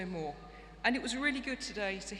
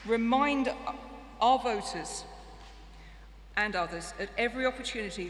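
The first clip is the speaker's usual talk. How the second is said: loud emphatic rally call; rousing shout; 5 dB louder than usual. Real, not acted. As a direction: drive it home to the hall. Rallying conference crowd.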